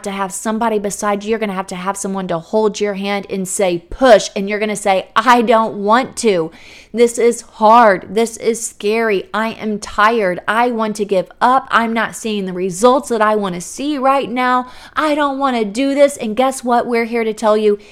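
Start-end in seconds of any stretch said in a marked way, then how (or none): 3.9-4.3 loud command. Pretend. Coach at the bedside saying push. 5.2-16.2 whiny protest. Pretend. Mother in labour protesting.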